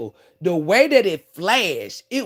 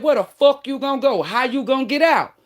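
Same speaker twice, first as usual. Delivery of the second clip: taunting repo lady; 6 semitones higher than usual. Retold or imitated. Repo lady taunting the trapped driver, mocking. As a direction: sneer it like she's got you trapped. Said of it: "When she said".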